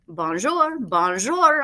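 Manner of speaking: lightly voiced mynah bird squawk; a hint of a parrot chirping bonjour. A narrator's reading. Mynah bird greeting the family, lightly squawked. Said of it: "in bird voice".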